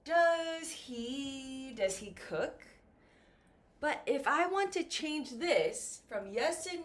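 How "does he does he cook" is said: "cook?" rises at the end; rising intonation. Shown as a demonstration. Teacher showing question tune, rising on "cook?". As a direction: let "cook?" go up. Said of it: "the intonation goes up".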